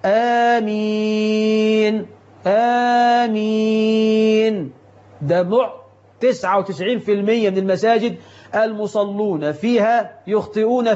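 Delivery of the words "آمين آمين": آمين drawn out in slow recitation; long, slow آمين; correct amen. Shown as a demonstration. Preacher repeating amen the right way. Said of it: "اعكس، اعكس".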